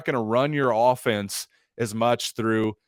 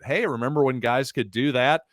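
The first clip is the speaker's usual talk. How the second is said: sarcastic. Acted. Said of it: "I'm being a little sarcastic here".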